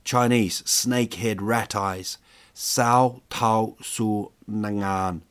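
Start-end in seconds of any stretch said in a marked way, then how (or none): 2.5-5.2 mock kung fu film delivery, slow; hammed-up martial arts line; karate movie voice. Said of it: "like a karate movie".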